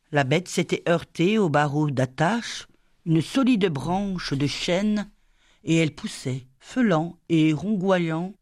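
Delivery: ordinary delivery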